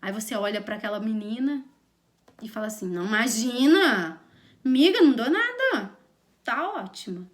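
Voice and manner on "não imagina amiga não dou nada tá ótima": swooping, hammed-up fake reassurance; ironic reassurance. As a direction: reassure her with obvious irony, then drop it. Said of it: "ela é muito presente na entonação". (ironia exagerada na entonação)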